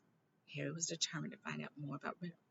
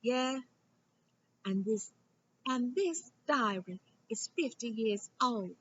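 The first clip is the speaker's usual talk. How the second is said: high, slow and eager, pressing the point; excited; 8 semitones higher, 8 dB louder, slower than usual. A narrator's reading. Hermione thrilled at the diary's age, high and eager. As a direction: tap the diary and bring it out with excitement. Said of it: "tapping it excitedly".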